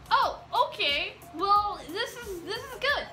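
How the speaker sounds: retold starstruck reaction; flustered delight. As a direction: take it in haltingly, voice lifting. Retold flustered reaction to meeting idols.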